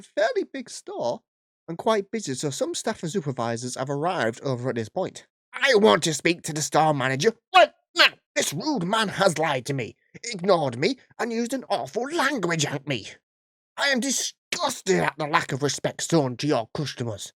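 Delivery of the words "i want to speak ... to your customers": lightly put-on entitled Karen complaining; demanding customer, lightly voiced. Karen demanding the store manager, lightly voiced. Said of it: "I can't keep this voice up".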